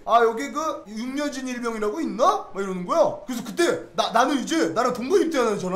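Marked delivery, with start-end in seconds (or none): 0.0-2.5 officer's question. Retold or imitated. Intelligence officer asks for private.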